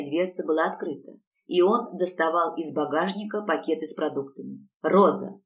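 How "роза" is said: calling out. Acted. Husband calls wife again, impatient.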